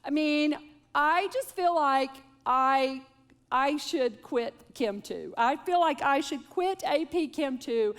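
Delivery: mild imitation of a teary daughter; lightly mimicking a daughter on the verge of tears; tearful teen. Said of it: "and she's crying".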